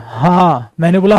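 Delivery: normal talking voice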